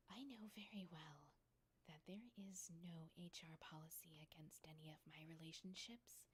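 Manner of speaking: soft, measured, half-whispered warning; understated cold authority, breath in the voice; quiet rebuke. Acted. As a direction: cut them off with controlled restraint. Boss interrupts and rebukes employee.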